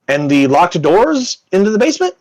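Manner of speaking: high-pitched pressing question; questioning duchess. Acted.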